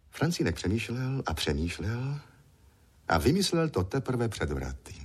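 usual speaking voice

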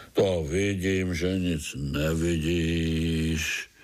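drily mock the blind spider; grumpy worm. (nevrlý žížalák)

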